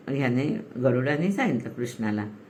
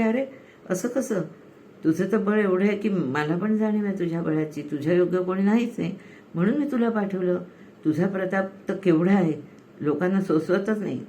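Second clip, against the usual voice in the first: higher, amused teasing praise; teasing Krishna; 4 semitones higher than usual. Retold or imitated. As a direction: flatter him with a playful lift. Krishna teasing the humbled Garuda.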